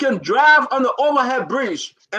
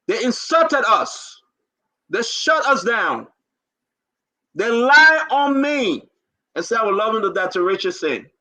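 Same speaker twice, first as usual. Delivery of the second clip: holding back tears. Real, not acted. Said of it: "No crying here".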